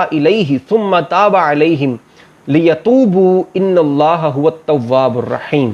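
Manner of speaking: slow, measured Arabic recitation with long-held vowels; Quran recitation. Acted. Teacher recites a verse before translating it, measured recitation. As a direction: recite the verse slowly, drawing out the long syllables.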